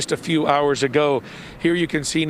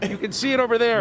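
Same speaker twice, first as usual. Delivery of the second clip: teary from tear gas; 6 semitones higher, faster than usual. Real, not acted. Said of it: "my eyes are watering and I can barely".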